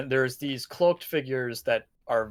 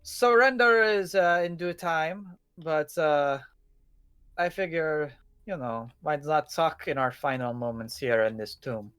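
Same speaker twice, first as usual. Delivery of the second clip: put-on Dutch accent; 2 semitones higher than usual. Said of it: "Dutch accent".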